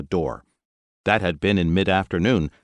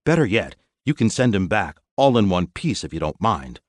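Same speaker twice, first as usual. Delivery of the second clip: angry demand; 2 semitones higher than usual. Acted. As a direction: lean in, menacing. Angry captain demands butler.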